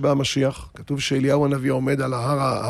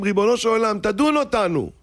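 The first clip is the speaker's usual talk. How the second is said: pleading prayer; 5 semitones higher than usual. Acted. Congregation pleading with God.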